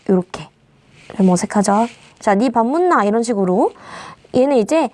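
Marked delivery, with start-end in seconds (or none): 2.3-3.0 Gyeongsang dialect. Shown as a demonstration. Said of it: "경상도 사투리".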